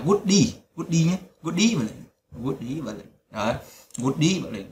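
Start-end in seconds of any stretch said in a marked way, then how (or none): 0.1-1.0 'good đi' showing good's d carried onto the vowel ee; linked sounds. Shown as a demonstration. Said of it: "các bạn sẽ nối âm". 1.4-3.1 'good evening' run together as 'goo-deevening'; linked sounds. Shown as a demonstration. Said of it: "cái từ good evening này các bạn sẽ nối âm". 4.0-4.7 'good evening' linked, with the weight on the first vowel of evening; stress on the EE. Shown as a demonstration. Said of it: "Trọng âm là âm y".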